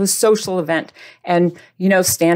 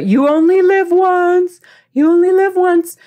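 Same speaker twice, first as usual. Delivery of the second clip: 1 mock yolo; 9 semitones higher, 5 dB louder than usual. Mocking the yolo excuse.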